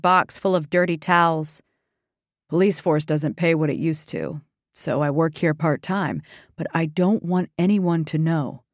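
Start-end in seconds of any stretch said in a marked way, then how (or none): 2.5-8.6 hushed officer voice. Acted. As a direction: keep it down, confiding a secret. Officer confides secret quietly.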